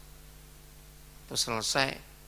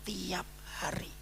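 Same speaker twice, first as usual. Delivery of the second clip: whispered emphasis; 7 semitones higher, 9 dB quieter, slower than usual. Real, not acted.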